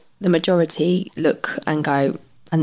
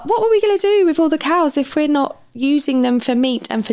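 mocking quote; 7 semitones higher than usual. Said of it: "what people say are".

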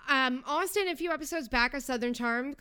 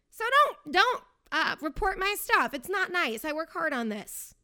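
playful plea; 5 semitones higher, 4 dB louder than usual. Real, not acted. Pleading with Austin.

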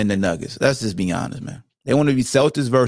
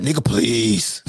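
quoting a movie villain; 3 semitones lower, much slower than usual. Retold or imitated. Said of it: "What my man Show Enough said?".

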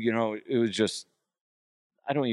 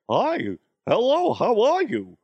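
high, loud lunch lady falsetto; drawn-out singsong mom greeting; Mama DeHuff; 13 semitones higher, 6 dB louder, slower than usual. Acted. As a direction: attempt a comic lunch lady, pitched way up. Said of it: "like, Mama DeHuff".

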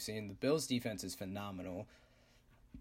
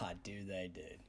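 whisper; 4 semitones lower, 8 dB quieter than usual. Real, not acted. Knowing aside about bar guys.

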